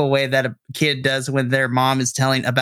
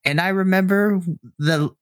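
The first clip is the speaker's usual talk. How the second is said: higher, doting mother voice; mom mode; 6 semitones higher than usual. Acted. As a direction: gush like a proud mom. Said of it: "she begins to go into mom mode".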